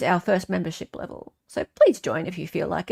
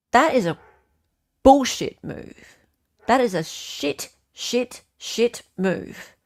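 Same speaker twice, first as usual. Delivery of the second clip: outraged; 4 semitones higher, slower than usual. Real, not acted. Outraged at the defence move.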